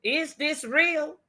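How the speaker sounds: high, soft, slow question; can't believe what she hears; hushed astonished question; stunned disbelief. Real, not acted. Disbelief at news.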